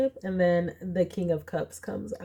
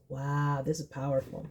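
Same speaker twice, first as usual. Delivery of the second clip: awed hush; 5 semitones lower, 6 dB quieter than usual. Real, not acted. Reading the Strength card.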